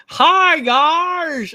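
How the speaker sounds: high, loud, drawn-out fake greeting; mocking, over-sweet squeal as if to simpletons; condescending mimicry. Southerner mimicking a politician talking down to Southerners, condescending. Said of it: "talks like we're just all stu".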